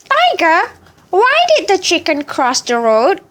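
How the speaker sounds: put-on high, proud old chicken; wise chicken voice. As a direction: boast like a wise old bird. Chicken poses riddle.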